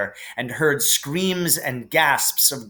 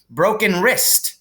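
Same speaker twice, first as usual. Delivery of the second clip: muttered; 7 semitones higher, 4 dB louder than usual. A narrator's reading. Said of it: "Harry heard her mutter".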